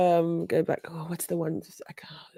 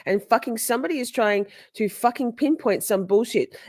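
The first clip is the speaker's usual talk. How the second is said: higher mock rant; a lightly voiced, pitched-up Katie; 6 semitones higher than usual. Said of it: "She goes".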